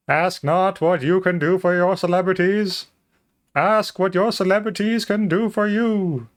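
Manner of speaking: high, pompous presidential oration; grand speech voice. Pretend. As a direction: declaim the line to a crowd. JFK parody again.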